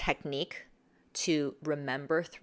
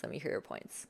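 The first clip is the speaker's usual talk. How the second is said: whispered, much softer Let me hear your points; 3 semitones lower, 9 dB quieter than usual. Shown as a demonstration. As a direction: hush it to invite them in. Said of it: "You go softer".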